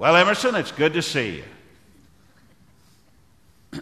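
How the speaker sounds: high-pitched, loud, booming big voice.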